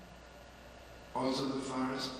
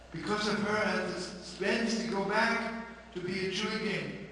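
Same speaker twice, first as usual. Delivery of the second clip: fervent; 6 semitones higher, 4 dB louder than usual. Acted. Husband telling the rabbi how his wife brought him back, fervent. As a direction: build to the return. Preacher's climax on return.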